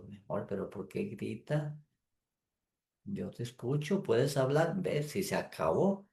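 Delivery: soft soothing spouse; calm reply. Pretend. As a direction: let her vent, answer gently and quietly. Calm spouse answering a shouting partner.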